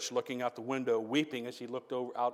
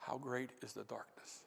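hushed preaching; 11 dB quieter than usual. Real, not acted. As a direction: draw them in almost under the breath. Quiet reflective sermon passage.

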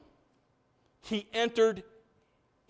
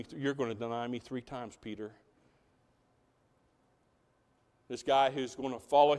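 calm Jesus; 5 semitones lower, 4 dB quieter than usual. Retold or imitated. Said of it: "Jesus answered him and says".

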